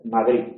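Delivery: "Madrid" with no final d; dropped d. Shown as a demonstration. Teacher imitates the chotis-style "Madrid". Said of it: "hacerla desaparecer".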